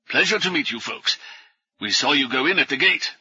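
lightly voiced, out of breath professor; a hint of a puffing scholar; winded old professor. Professor greets the newcomers.

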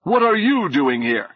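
taken aback; note of surprise. A narrator's reading. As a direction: let surprise slip into the voice. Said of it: "could not keep a note of surprise".

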